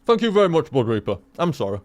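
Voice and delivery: talking through a mouthful of biscuit; mouth full. Real, not acted. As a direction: speak around a bite of food. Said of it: "very rude to talk with your mouth full".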